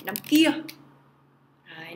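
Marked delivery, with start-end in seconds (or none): 0.0-0.5 announcing the answer. Shown as a demonstration. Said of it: "teacher gives the answer".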